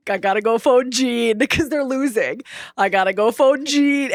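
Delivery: put-on thick German accent. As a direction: say it like a German team boss. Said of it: "he's doing this thick German accent".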